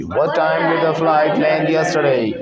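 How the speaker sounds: slow, drawn-out English for repeating; slow model sentence. Shown as a demonstration. Teacher models a question to repeat, slowly drawn out. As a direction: stretch each word out for learners.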